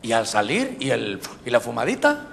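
low, softened imitation of a nagging thought; little tempting inner voice. Inner voice tempting the new convert to smoke, quiet and sly. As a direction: slip it in low and soft, like temptation. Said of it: "y otra vocecita aquí".

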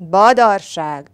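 loud, slow, drawn-out word; storybook tiger bellow; tiger's dismissive yell. A narrator's reading. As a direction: roar it off as rubbish. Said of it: "üvöltötte tigris".

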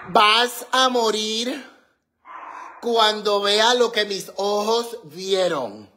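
slow, laughing build-up; excited. Real, not acted. Telling her partner he'll die when he sees it, excited and laughing. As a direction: tease the big reveal.

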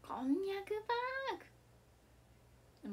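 こんにゃくパーク, high and openly; taboo phrase said aloud. Pretend. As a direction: blurt the forbidden word defiantly at full voice. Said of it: "言いまくります".

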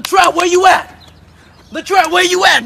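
loud, heated calling out; angry confrontation. Acted. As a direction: confront him at full volume. Confronting a man in skit.

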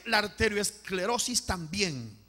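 slow, falling repeat; measured, stretched echo; slow solemn repeat. Real, not acted. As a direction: repeat it slowly, letting the tune settle.

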